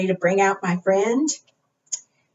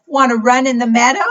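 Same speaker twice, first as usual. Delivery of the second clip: quick, higher inviting question; storybook sheep; 5 semitones higher, 6 dB louder than usual. Acted. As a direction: lightly voice an eager sheep. Reader voices the sheep's question.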